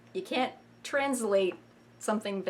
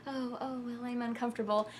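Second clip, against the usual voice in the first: hesitant discomfort; 7 dB quieter than usual. Shown as a demonstration. Demo of uncomfortable reply.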